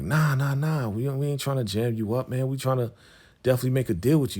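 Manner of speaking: retold plea to calm a suspicious dealer; placating protest. Young dealer assuring Cousin Buddy it's no setup, placating. Denies trying to jam dealer up.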